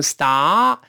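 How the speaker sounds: star读成“斯达”，末尾不带r; 示范错误的star，只拖长“啊”不勾舌; 错读不卷舌. Shown as a demonstration. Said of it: "既不能读成star". (star丢掉卷舌尾音)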